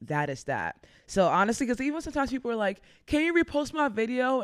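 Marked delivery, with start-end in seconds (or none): 3.1-4.4 high-pitched imitation of a requester; put-on higher voice, asking a favor; imitated pleading request. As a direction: ask it high, mimicking a hopeful follower. Imitating people asking for a repost.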